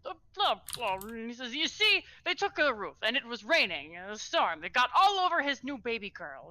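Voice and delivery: a fussy fish-man's fluster; fretful fishy villager. Acted. Fish-eyed villager frets to the lady about the storm.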